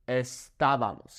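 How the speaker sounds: estábamos stressed early, es-TA-ba-mos; estábamos with the stress on TA, not BA; accented A. Shown as a demonstration. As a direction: punch the TA in estábamos. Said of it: "we put an accent over this a".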